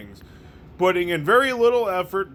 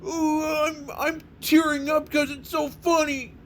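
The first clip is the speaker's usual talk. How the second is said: exaggerated fake crying-laughter, much higher voice; hammed-up laughing fit; 12 semitones higher than usual. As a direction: ham up laughing to tears, gasping for air. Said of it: "No, nothing like".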